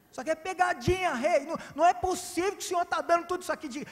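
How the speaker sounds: high, loud and fast, tumbling out; excited disbelief. Acted. Poor boy tugging the king's robe, bursting with excited disbelief. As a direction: blurt it like a kid who can't believe his luck.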